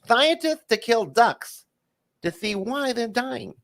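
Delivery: high, slow punchline read; Jay Leno. Acted. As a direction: stretch the headline slowly up high. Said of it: "you're gonna read 'em as Jay Leno".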